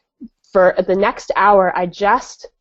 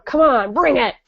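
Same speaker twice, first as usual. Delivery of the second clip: higher, cocky dare; mock bravado; 5 semitones higher than usual. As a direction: throw down the challenge, grinning. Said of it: "I actually want".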